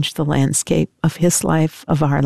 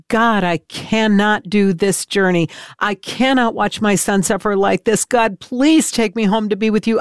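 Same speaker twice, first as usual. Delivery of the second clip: a rising, pleading cry, higher with each line; anguished plea to God; 5 semitones higher than usual. Retold or imitated. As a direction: beg God in despair, voice climbing. Guttural wail come out.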